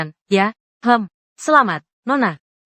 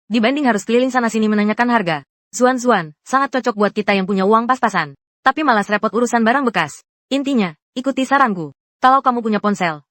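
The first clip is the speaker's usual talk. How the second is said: upbeat friendly product pitch; sponsor ad read. Acted. Narrator pitching a resale shop to viewers, ad read. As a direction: sell it to viewers short on cash.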